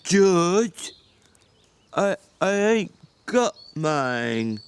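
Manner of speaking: slow, gentle confession; Lenny gently admitting a loss to George. Acted. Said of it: "He said gently".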